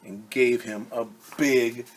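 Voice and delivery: lively storybook read-aloud; reading to children. Acted. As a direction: read it like story time for kids. Reads picture book to children.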